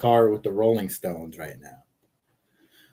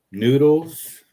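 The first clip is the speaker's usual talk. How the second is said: playful exclaim; 6 semitones higher, 6 dB louder than usual. Real, not acted. Playful call of a word.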